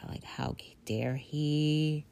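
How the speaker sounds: whispered, slow, bitter; seething whisper. Retold or imitated. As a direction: hiss it slowly under your breath. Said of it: "seething with".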